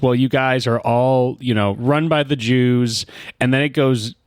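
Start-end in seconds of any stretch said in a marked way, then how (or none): 0.0-3.1 imitating her slow, measured answer; slow reply. Bar lady slowly revealing her conspiracy theory, imitated slow delivery. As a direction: quote it slowly, drawn out. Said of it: "slowly she just goes".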